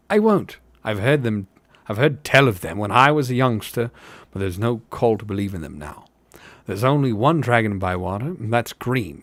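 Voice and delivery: lightly voiced dismissive tavern hobbit; a hint of a doubting rustic; sceptical hobbit.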